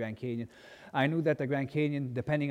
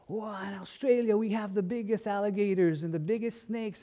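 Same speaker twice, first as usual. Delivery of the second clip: put-on higher, bragging kid voice; boasting classmate; 8 semitones higher than usual. Missionary kid mimicking an Australian friend's brag, in a high boastful voice. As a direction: show off like a proud schoolboy.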